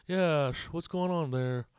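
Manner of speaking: light attempt at an actor impression; a hint of a movie star's voice; Nick Cage. Comic working on his impression, lightly done actor voice. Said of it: "still trying to work on that Nick Cage voice".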